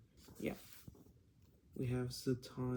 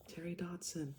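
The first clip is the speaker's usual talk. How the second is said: whispered name; quiet at night; 5 semitones higher than usual. Real, not acted. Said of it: "I'm kinda whispering because it's late".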